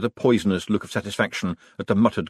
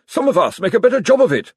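sharp, loud, high retort; snapped; 11 semitones higher, 7 dB louder, faster than usual. A narrator's reading. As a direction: bite the words off, stung. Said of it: "snapped Josephine".

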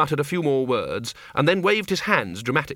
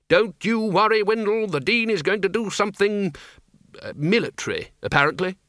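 higher, booming-on reassurance; hearty Archchancellor; 8 semitones higher than usual. A narrator's reading. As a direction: reassure him in a raised character voice. Ridcully reassures Windle.

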